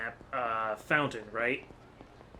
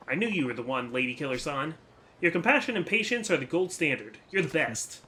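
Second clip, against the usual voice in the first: put-on bright, higher eager young woman; excited young woman; 4 semitones higher than usual. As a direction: gush with praise.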